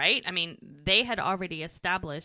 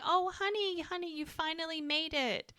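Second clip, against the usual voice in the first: gushing Joellen; 9 semitones higher, 6 dB quieter than usual. Retold or imitated. Joellen greeting Mel warmly.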